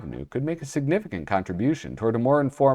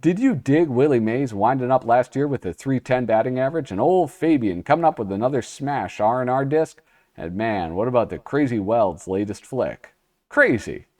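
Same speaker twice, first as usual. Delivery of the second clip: beatnik slang; 2 semitones higher than usual. Acted. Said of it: "give you some Americanized skin".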